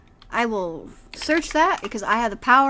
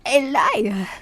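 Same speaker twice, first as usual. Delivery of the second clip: breathy, crying whisper; tearful whisper; 4 semitones higher, much slower than usual. Acted. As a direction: whisper it through tears. Grandma insists, scared.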